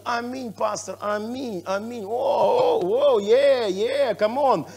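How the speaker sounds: a churchgoer's rising, slow hyped-up amens; mock enthusiastic amen. Pastor mimicking a listener cheering the sermon, hyped. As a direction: cheer the preacher on, lightly hammed. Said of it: "кажеш".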